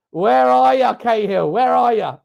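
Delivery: loud frustrated calling for a missing player. Real, not acted. Fan calling a hidden player, loud and exasperated. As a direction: shout for the player to show himself.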